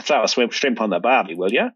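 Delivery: lightly broad Australian cliche line; mock Aussie ad catchphrase. Australian explaining the old shrimp ad, mock Aussie catchphrase. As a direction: quote the ad in a hint of ocker Australian. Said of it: "the cliche, the meme".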